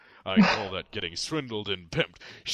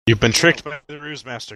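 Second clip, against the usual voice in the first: loud high gloating taunt; gloating villain voice; 4 semitones higher, 9 dB louder than usual. Pretend.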